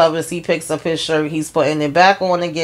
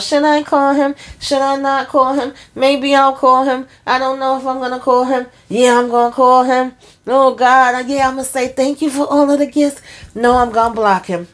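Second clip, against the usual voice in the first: high, breathless back-and-forth, imitating a flustered woman; hammed-up high voice of an indecisive girlfriend; dithering Andy; 8 semitones higher than usual. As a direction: playfully mimic her going round in circles about calling him. Voicing Andy's dithering on the bed.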